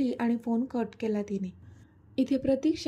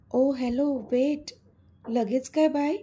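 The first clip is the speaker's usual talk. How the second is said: calling him back; 2 semitones higher, 5 dB louder, slower than usual. A narrator's reading. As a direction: stop him before he hangs up. She stops him hanging up. (घाईने हाक मारत, मोठ्याने)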